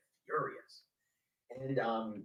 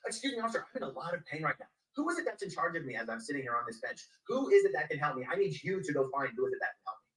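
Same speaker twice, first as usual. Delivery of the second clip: insistent plea; 5 dB louder than usual. Retold or imitated. Retold plea to officers.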